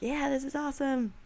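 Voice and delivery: mock elated. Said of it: "the good nights, you're like".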